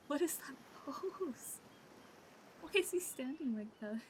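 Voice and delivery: high, slow disbelief; incredulous. Real, not acted. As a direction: stretch it out in disbelief. Mocks character's odd pose.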